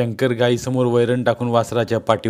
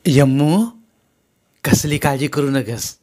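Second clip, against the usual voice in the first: a bit higher mother-in-law's voice, protective; lightly voiced caring mother-in-law; 4 semitones higher, 3 dB louder than usual. Mother-in-law reassuring Yamuna, a bit higher. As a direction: fuss over her like a mother.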